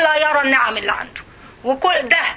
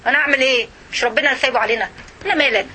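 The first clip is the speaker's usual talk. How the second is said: mock excuse-maker; faster than usual. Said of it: "تقولي".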